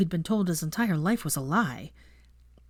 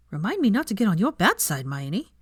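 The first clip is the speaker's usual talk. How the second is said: impressed Veronica; 3 semitones higher than usual. Acted. Veronica half-joking to Hermione, impressed. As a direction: tease with respect.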